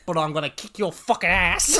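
hammed-up yell through laughter; laughing mock shout. Cohost voices the killer threatening someone, laughing mock shout. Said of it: "She said".

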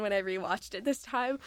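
usual speaking voice

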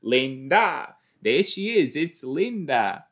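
high, loud and giddy, a laugh breaking in; woman gushing to her colleague about her nickname, high and giddy; gushing Linda. Retold or imitated. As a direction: squeal about your new nickname like it's the best thing ever. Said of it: "She's like".

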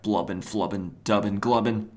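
mild cartoon burbling; lightly voiced drowning gibberish; Looney Tunes underwater babble. Superman suddenly in the ocean, mild cartoon burble. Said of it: "like they do on Looney Tunes".

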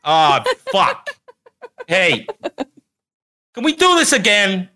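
high, pushy asshole-star voice; Hollywood Druid. Acted. Asshole star annoyed at doing a show, high pushy complaining. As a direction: grumble at the crew in a high, irritated voice. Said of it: "Hollywood Druid out".

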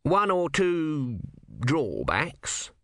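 high-pitched urging that turns hesitant; insist, then stall before admitting the catch; high voice slowing into reluctance; urgent, evasive god. Acted.

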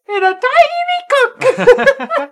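put-on very high, loud French-accented squawk; terrible French accent. Undercutting praise of Robert Pattinson's acting, shrieked bad French accent. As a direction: blast it out in cartoonish bad French. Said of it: "he has the worst French accent".

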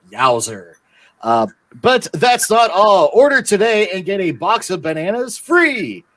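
cheesy pitchman ad read; infomercial. Acted. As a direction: hype the calendar like a TV ad. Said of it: "we have a sponsor announcement".

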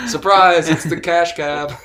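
loud, high game-show reveal; excited reveal. Real, not acted. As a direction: announce it like a gotcha. Host springs the surprise.

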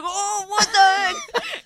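mock alarm through laughter; freaked-out husband. Imitating husband finding the mess in bed, freaked out. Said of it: "he's freaking out".

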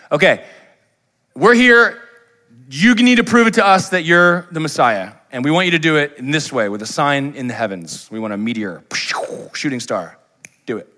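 demanding Pharisees. Retold or imitated. Pharisees demanding a sign from Jesus, loud and pushy. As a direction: throw down the challenge like a smug heckler. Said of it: "So they're saying".

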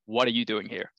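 a deliberately bad American accent on corporate bro's words; lightly hammed-up American accent, barely off his own voice. Corporate bro greeting the London guy at the premiere, in a bad American accent. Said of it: "I'm gonna do a bad American accent now".

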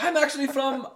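high, loud mock Eastern European doctor; butchered European accent. Doctor telling patient where he's from, butchered Eastern European accent. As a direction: put on a hammy European accent. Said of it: "sorry for butchering his accent".

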